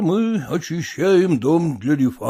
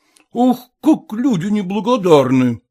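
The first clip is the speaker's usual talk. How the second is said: indignant exclamation, pitched up; old master's indignant outcry; exclaiming; 5 semitones higher, 4 dB louder than usual. A narrator's reading. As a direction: throw up your hands at ungrateful people. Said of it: "воскликнул Пятищев".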